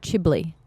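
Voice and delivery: "Chibli" said "CHIB-lee" for chimney; mispronounced chimney. Retold or imitated. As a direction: imitate someone garbling chimney into "Chibli". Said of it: "I can't say the word".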